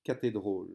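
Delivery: "cathédrale" read with the Walloon O for Å; Walloon word read out. Shown as a demonstration. Teacher demonstrating a Walloon word to the class. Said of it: "se prononce".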